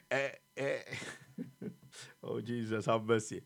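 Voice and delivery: low, soft murmur; quiet aside. Real, not acted. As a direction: murmur it to yourself. Laughing aside, lost for words.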